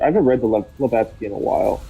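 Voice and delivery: talking while eating chips; words round a mouthful of chips; crunching chips. Real, not acted. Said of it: "I'm eating chips and dip".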